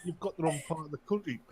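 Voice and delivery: high mock yell, settling into huffy threat; hammed-up outraged Englishman; mock shouting threat. Acted phone quarrel.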